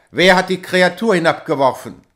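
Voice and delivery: loud furious question; fury spraying from him; angry demand. A narrator's reading. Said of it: "sprühte der Zorn". (zorniger Ausruf)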